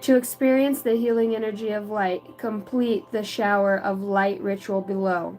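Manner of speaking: measured spiritual reading; read-aloud card message. Acted.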